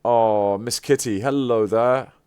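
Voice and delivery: delighted greeting. Real, not acted. Greets cat artwork.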